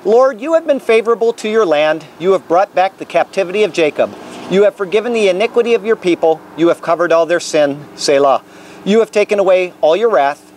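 measured, earnest Bible reading; scripture reading. Acted. Preacher reading Psalm 85 to listeners on the Capitol grounds, measured reading. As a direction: read the psalm aloud to the crowd.

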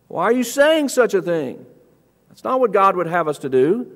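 firm, acted reproof; stern correction. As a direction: challenge him sternly as Jesus correcting Peter. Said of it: "does it rather sternly".

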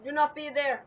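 loud frustrated outburst; raging gamer. Real, not acted. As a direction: yell at the screen. Dying in the game.

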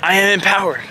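imitating yoga men. Vlogger mimicking men doing planks in the park, mock-earnest. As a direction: declare it like a hammed-up motivational mantra. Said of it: "And they're going".

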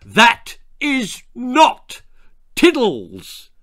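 high, loud, slow outraged shout. Acted. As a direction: bellow it at the door in disbelief. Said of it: "and shouted".

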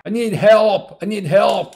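high, loud pleading for help; desperate cry for help. Retold or imitated. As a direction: beg for help in panic. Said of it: "굉장히 절규하면서".

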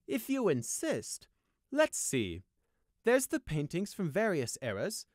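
high, slow, self-important noble listing. A narrator's reading. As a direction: savour each treasure as you list it. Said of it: "Cedarfields listed".

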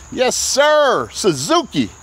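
high, excited salesman call; hyped. Real, not acted. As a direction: pump up the Suzuki. Hyping the Suzuki.

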